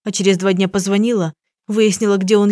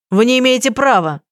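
raised, higher narrated protest; mild shout; 5 semitones higher, 4 dB louder than usual. A narrator's reading. Young man protesting the detective's search, a raised narrated shout. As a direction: push it up and out, not a full yell. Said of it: "закричал он".

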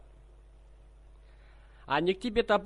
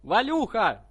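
slow, high, loud shout; 8 semitones higher, 8 dB louder, slower than usual. Acted. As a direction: shout it slowly to a deaf old woman. Prankster shouts at deaf woman.

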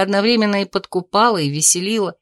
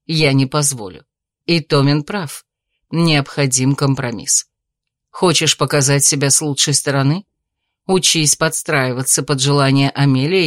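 lower, measured noble mother's voice; a countess lecturing her son; stern mother; 6 semitones lower than usual. Acted.

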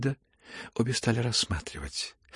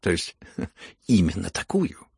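P=A; probing question. A narrator's reading. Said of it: "general's wife questions the prince".

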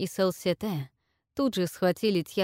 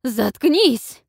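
higher, loud raging shout; furious yell; 6 semitones higher, 10 dB louder than usual. A narrator's reading. Queen screams at the traitor granddaughter, furious yell. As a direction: roar at the traitor.

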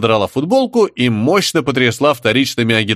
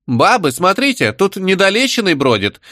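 higher mock exclamation; exclaiming; 8 semitones higher than usual. Shtanina mocking a soldier, lightly exclaiming. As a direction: call the women to look. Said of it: "воскликнула штанина".

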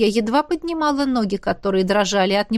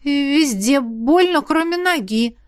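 slow, puzzled complaint with raised pitch; surprised; 3 semitones higher, slower than usual. Acted. Hurt trainee answering coach, surprised. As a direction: answer slowly, discovering it as you speak. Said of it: "ответила Равена с удивлением".

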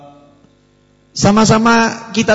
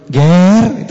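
soft call; 5 dB louder than usual. Shown as a demonstration. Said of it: "Itu kan enak ya".

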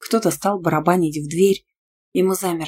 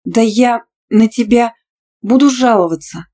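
squealed threat; 5 semitones higher, 8 dB louder than usual. A narrator's reading. Student threatening to report Tima, squealing indignantly. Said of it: "взвизгнула".

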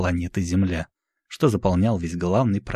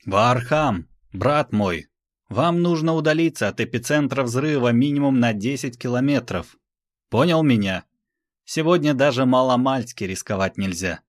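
raised, commanding king's voice; a ruler warning his brother firmly; 5 semitones higher than usual. Acted. King Magdalaren gives orders.

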